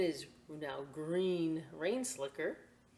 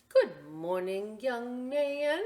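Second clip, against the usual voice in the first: cheerful doorman; 6 semitones higher, 6 dB louder, slower than usual. Acted. Doorman greets boy.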